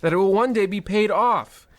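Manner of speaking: bank manager. Acted. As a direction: rattle off the cruelty like routine paperwork. Voices callous bank manager.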